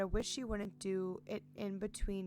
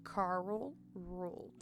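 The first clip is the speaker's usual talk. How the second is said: slow reverent tribute; 3 dB quieter, much slower than usual. Acted. Fond drawn-out tribute to the dog.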